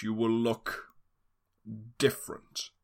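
breathy hushed threat; ominous whisper. Acted. Villain ominous hush.

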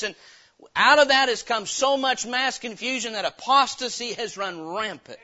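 loud, building sermon climax, pushing each phrase; preaching at full force. Real, not acted. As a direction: drive it home like a fiery preacher.

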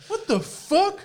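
high incredulous cry, half laughing; shocked disbelief. Retold or imitated. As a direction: squeal it out in disbelief. Outraged disbelief at rude couple.

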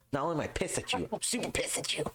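very high-pitched comic indignation; mock pissed off. Quoting a comedian's bit about being pissed, mock-angry. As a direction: squeal the complaint in playful outrage.

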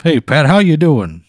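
high, loud calls of Pat; quilt creature calling. Acted. Scene: the quilt calls out to Pat from the bed, high and loud. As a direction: shout his name to wake him.

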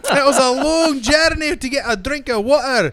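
very high, loud squeaky little-man voice; tiny Colin Farrell. Pretend. Mocking Colin Farrell as a tiny man, high squeaky voice. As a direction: play a tiny man dwarfed by everything.

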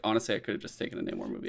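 whispered, fast aside; quick whispered aside; fast quiet aside. Retold or imitated. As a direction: mutter it quickly under your breath. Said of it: "I was like".

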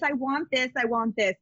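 light mock of a scattered chooser; indecisive wanting. Psychic imitating the client's scattered wishes, lightly indecisive. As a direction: toss the wants off lightly, undecided. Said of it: "you get really scattered and you're like".

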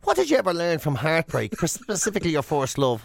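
lightly voiced nosy old schoolmate; breezy small talk then a prying turn; chatty acquaintance. Old schoolmate corners Jim with small talk, breezy. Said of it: "glad you used to go to school with".

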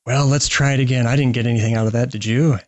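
a hint of an old president, easygoing; barely-there presidential folksy voice; Ronald Reagan impression. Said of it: "almost like a Ronald Reagan impression".

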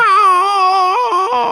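high tickled yelp; being tickled. Acted. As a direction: yelp like someone is tickling you. Voicing the tickled woman on video.

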